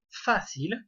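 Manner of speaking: facile with its first syllable, the A, stressed. Shown as a demonstration. Teacher showing why the word needs a written accent, stressed A. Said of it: "le A qui est tonique".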